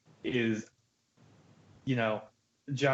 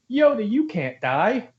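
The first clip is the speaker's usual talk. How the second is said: cheesy line reading; 4 semitones higher, slower than usual. Retold or imitated. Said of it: "the way that line is delivered".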